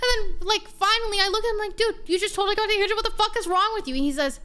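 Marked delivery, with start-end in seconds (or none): 1.8-3.9 fast, higher-pitched retold outburst; indignant confrontation. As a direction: confront him in rapid disbelief. Retelling how she confronted the teammate.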